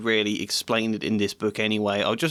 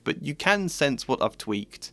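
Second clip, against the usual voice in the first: usual speaking voice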